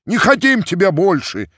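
furious mob shouting down their leader; crowd yelling. A narrator's reading. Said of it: "кричали из толпы казаки".

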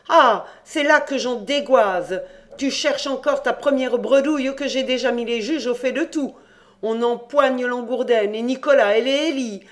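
panicked cousin shouting his escape scheme; feverish volubility. Acted. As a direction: rattle it off giddy with fear. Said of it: "Il parlait avec une extraordinaire volubilité".

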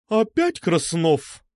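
slow, stern teacher's question; a hint of an annoyed head teacher; lightly voiced contralto teacher. A narrator's reading. Teacher catches the troublemaker again, slow and stern. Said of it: "контральто Лидии Игоревны Митусовой".

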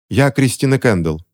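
usual speaking voice

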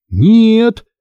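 a high, loud, alarmed cry; sudden shout. Acted. Aunt suddenly shouting no at the werewolf idea, loud alarmed cry. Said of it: "закричала вдруг тётя Марта".

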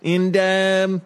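put-on Cockney customer settling up; Cockney accent. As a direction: wind up a deal in mock Cockney. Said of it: "it's, it's Cockney".

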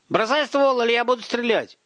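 put-on high boyish shouted warning; urgent, high-pitched command; yelled threat. A narrator's reading. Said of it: "заорал сверху Ромка".

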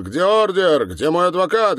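high, loud, outraged questions; yelled demands. Acted. Arrested man demanding warrant and lawyer, yelling. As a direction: fire the demands at them, yelling.

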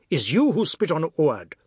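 forceful, menacing accusation; breathless angry shout. A narrator's reading. Brother-in-law confronting the spitter, breathless angry shout. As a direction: shout the question as a challenge. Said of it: "Govind shouted, breathing hard".

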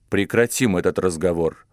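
тихо и ровно, сдерживая себя; говорить сдержанно и спокойно. Acted. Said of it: "спокойно сказал Монтанелли". (спокойно, сдерживая гнев)

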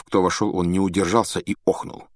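usual speaking voice

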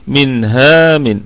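منها drawn out slowly, mad on the final ha; منها slowed for recitation. Shown as a demonstration. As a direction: stretch منها slowly as in tajweed. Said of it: "ونقف هكذا". (منها ممدودة ببطء)

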